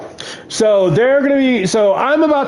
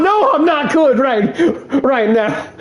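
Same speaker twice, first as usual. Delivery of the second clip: laughing through a mock complaint; laughing reply; 5 semitones higher than usual. Gamer retelling his answer to Prime, laughing. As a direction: laugh it out, not fine. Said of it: "Prime's like".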